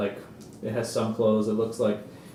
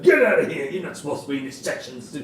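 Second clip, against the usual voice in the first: acted yelling; 4 semitones higher, faster than usual. Soldier chasing a sleeping man from his shack, acted yelling. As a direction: yell like a soldier rousting a sleeper. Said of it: "he's yelling at him".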